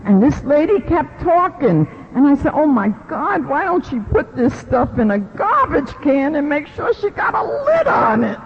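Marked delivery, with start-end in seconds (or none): 2.5-8.4 higher, ending in a near shout; mock disbelief building up; aghast, half-yelled inner reaction; incredulous. Reacting to lady oversharing.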